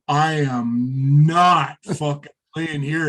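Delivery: slow, emphatic digging in of heels; retold refusal. Nervous guitarist balks at the packed tent, stubborn. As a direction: stretch each word into a mock-stubborn refusal.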